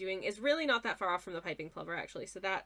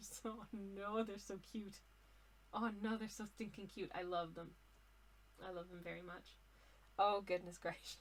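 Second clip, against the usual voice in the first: giggly speech, giggling while talking; 11 dB quieter than usual. Looking for a picture of Caspian plovers, giggling while talking. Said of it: "I'm just giggling to myself".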